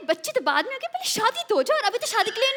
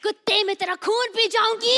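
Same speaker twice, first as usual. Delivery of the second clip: dramatic punchy hero lines. Acted. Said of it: "ये तो hero वाला डायलॉग है".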